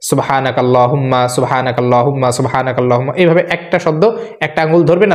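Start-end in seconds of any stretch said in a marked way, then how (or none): 0.1-3.1 saying সুবহানাকাল্লাহুম্মা over and over as a memory drill; drill repetition. Shown as a demonstration. Teacher showing viewers how to drill one word, repeated. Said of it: "এই যে এইভাবে".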